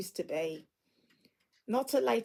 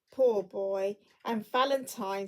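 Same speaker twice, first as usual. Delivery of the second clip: between laughing and crying; 3 dB louder than usual. Acted. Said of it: "a most extraordinary voice between laughing and crying".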